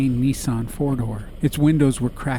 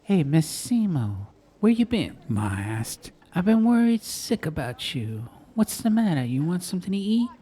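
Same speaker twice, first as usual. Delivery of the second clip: high, fussing Italian mom; fussing mother; 6 semitones higher than usual. Acted. Ma greeting her son and his girl, high and fussing. Ma's voice.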